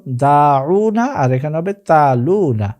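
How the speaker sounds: দাউনা and তালুনা slowly, long aa and uu held; drawn-out daa-uu-na, then taa-luu-na for তালুনা; pronunciation comparison. Shown as a demonstration. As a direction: set দাউনা against তালুনা, stretching both. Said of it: "খেয়াল করুন".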